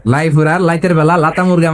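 "লাইপুরা লাইতের" with L for every initial R; mock Raipura accent, "লাতা মুরগা" with L; R becomes L. Preacher mimics Raipura locals, "লাইতের" with L for R. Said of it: "ররে কি বলে".

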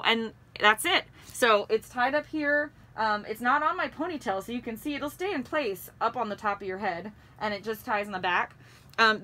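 muffled behind cloth mask; through a face mask. Real, not acted. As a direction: mouth covered by fabric. Seen 4: Fabric mask covers mouth and nose throughout the labelled words.

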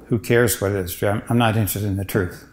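soft, scornful brush-off; sneering. Retold or imitated. Priest imagining Pilate dismissing truth, quiet sneer. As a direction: toss the question away with contempt. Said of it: "what did Pilate mean when he said".

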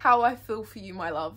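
lightly put-on British tenderness; a touch of posh British endearment; British accent. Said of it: "That was so British".

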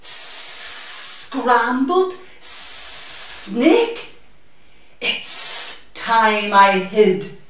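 very slow dread-filled drawl; horrified snake. Acted. Snake hearing it is the Gruffalo's food, slow dread. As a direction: stretch it out in horror.

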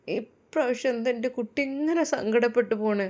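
a mother puzzled and sad; grieving mother. Acted.

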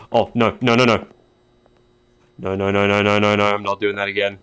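loud rapid "no, no, no"; panicked refusal. Real, not acted. Gamer refuses to repeat the scare, loud alarmed protest. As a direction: back away from it in alarm.

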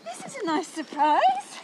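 breathless from power walking; panting between words; out of breath. Real, not acted. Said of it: "If I'm panting".

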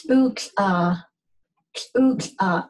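"ook" opened with a popped tl, air released at the side; "ook, uh" as tl'ook, break, uh; ejective barred lambda. Shown as a demonstration. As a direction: pop a cheeky tl before "ook". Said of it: "it's always ejective".

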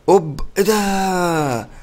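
slow, stretched gasp of surprise at a sudden sight; drawn-out surprise. Real, not acted. Gamer stunned by the map, slow stretched surprise. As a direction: stretch it out, caught off guard.

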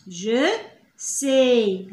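"Je" then a pause, then "sais." falling; split slowly. Shown as a demonstration. Teacher to pupils, breaking the phrase apart slowly.

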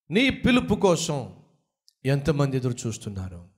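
urgent pulpit appeal, rising in places; preaching exhortation. Acted. Preacher urging listeners to reach the lost, preaching fervently. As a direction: rouse the listeners to act.

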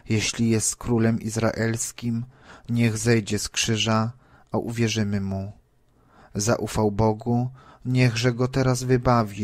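scornful crowd taunting Jesus on the cross, loud jeering. Acted. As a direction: jeer at the condemned man, loud and scornful.

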